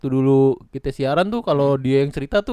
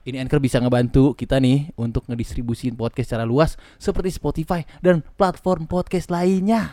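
ad read. Acted. Sponsor ad read.

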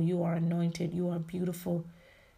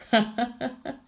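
short, higher burst of chuckles; amused laugh; 6 semitones higher, 3 dB louder than usual. Real, not acted. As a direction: chuckle at your own remark. Laughs after listing eating.

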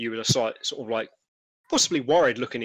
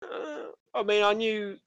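lightly voiced trader, hesitant and higher; uneasy stallholder; 4 semitones higher than usual. Stallholder telling a reporter about missing youngsters, uneasy.

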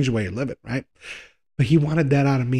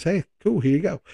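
higher-pitched, casual imitation of easy approval; lightly voiced breezy official; 5 semitones higher than usual. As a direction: act out a carefree go-ahead, lightly. Voices the state granting marriage.

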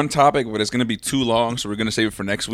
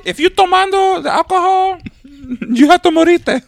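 put-on high, loud caricatured Hispanic accent; mock Hispanic accent; 7 dB louder than usual. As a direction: squawk it in a hammed-up Hispanic accent. Mock accent mixing Spanish and English.

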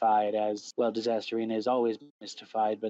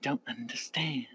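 whispering; 6 dB quieter than usual. Retold or imitated. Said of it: "I had to figure".

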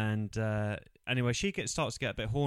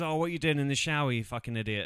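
mock angry dad; 4 semitones higher, 5 dB louder, faster than usual. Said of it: "he goes".

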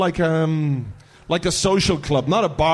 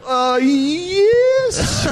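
mock Russian laughing; 9 semitones higher than usual. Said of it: "I could do Arshavin".

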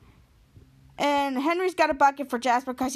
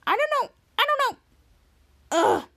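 panicked; 10 semitones higher than usual. Retold or imitated. Charlotte panicking before fight.

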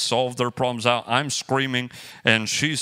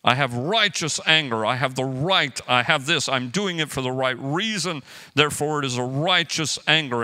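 mock self-righteous. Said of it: "sound super Christian".

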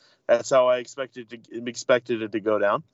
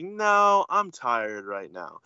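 mock tired machine, dropping off slowly; voice of a balky spaceship; much slower than usual. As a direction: play a worn-out ship refusing, lightly. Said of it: "the Millennium Falcon's like".

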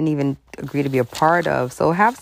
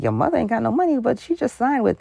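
higher, indignant telling; mock uncle; 10 semitones higher than usual. Uncle telling Christina about new deals, raised indignant. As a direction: set her straight. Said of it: "He's like".

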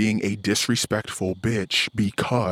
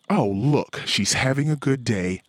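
wife quoting him as a gloater, mock sing-song; mock sneer; 6 semitones higher than usual. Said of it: "all you wanna do is say".

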